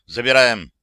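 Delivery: short loud call; loud shout. Acted. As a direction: bark the order to grab him. Rescuers shouting in battle.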